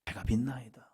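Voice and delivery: soft whispered prayer; preacher lowering the cry to a whisper; whispered confession. Shown as a demonstration. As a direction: breathe it out as a whisper.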